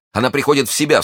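high, excited exclamation; relieved cry. Acted. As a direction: cry out with sudden hope. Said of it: "вскричал молодой человек".

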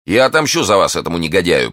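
loud, firm gallant vow; vow of revenge. Acted. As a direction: swear it with fervour. (решительная клятва мести)

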